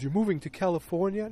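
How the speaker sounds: imitated surprised question; mild surprise. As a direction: retell a kid taken aback by news. Retold boy reacting to news.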